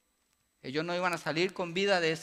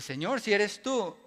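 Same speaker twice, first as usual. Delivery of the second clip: Pedro challenging; 5 semitones higher, 7 dB louder, slower than usual. Retold or imitated.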